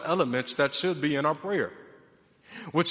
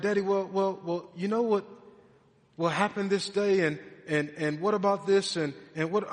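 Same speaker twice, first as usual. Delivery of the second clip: put-on hesitant, stalling child's wheedle, a bit higher; buttering up; 4 semitones higher than usual. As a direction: imitate a kid working up to a favor. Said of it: "she's trying to butter me up".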